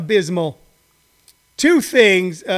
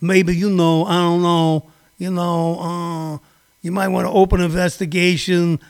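imitating Rudy Giuliani; 3 semitones lower than usual. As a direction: mumble like a shady lawyer hedging. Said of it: "Rudy Giuliani going".

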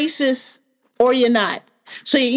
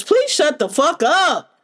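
slow, drawn-out exasperated plea, pitched up; 4 semitones higher, slower than usual. Real, not acted. To online doomers, a slow exasperated plea. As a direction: beg them to stop, fed up. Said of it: "I'm so tired of you dumb motherfuckers".

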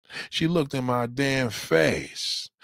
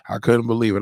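louder, emphatic repeat; loud disbelief; 5 dB louder, faster than usual. Acted. Host repeating his disbelief to viewers, emphatic and louder. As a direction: say it out loud now, full voice.

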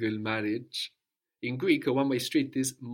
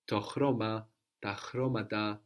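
to CHROma, ta CHROmata; accent stays put. Shown as a demonstration. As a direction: keep first-syllable stress in both "chroma" and "chromata". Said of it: "The accent doesn't move".

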